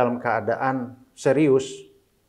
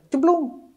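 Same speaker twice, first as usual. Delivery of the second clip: bunyi cemplung; 14 semitones higher than usual. Retold or imitated. Bunyi piring jatuh.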